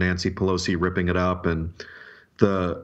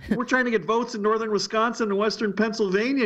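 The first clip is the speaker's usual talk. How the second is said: exaggerated Southern accent impression, pitched up; 13 semitones higher than usual. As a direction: mimic a Louisiana political strategist, Southern accent. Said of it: "in a southern accent".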